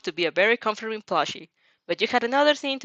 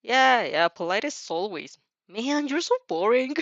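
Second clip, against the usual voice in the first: fed up; 3 semitones higher than usual. Acted. Bratty shadow dismissing a thank-you, fed up. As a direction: brush it off, bored and annoyed. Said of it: "she sounds even more fed up".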